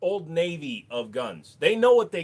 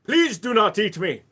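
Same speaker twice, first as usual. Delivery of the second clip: pleading victim; 6 semitones higher, 9 dB louder than usual. Pretend.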